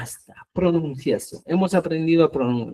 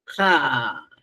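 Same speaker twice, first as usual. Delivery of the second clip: throat sound demo; 2 semitones lower than usual. Shown as a demonstration. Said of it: "cierra el paso así".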